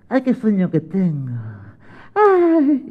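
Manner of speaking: sleepy sigh rising to a high sigh; mock drowsy settling down; acted sleepiness. Mateo getting into bed, mock sleepiness. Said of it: "tenía mucho sueño".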